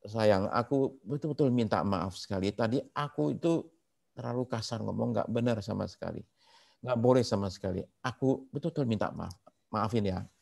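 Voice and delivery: soft, contrite plea; apologetic husband. Retold or imitated. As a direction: act out a husband tenderly asking forgiveness. Husband apologises to crying wife. (suami minta maaf dengan lembut)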